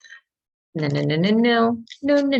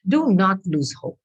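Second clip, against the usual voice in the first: losing her voice. Real, not acted. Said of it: "And I'm losing my voice".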